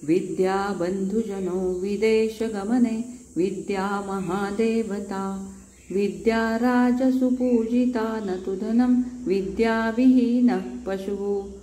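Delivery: slow, measured chanting of a shloka; Sanskrit verse recital. Acted. Tutor showing off Sanskrit to the boys, slow chant. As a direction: intone each phrase slowly like a recitation.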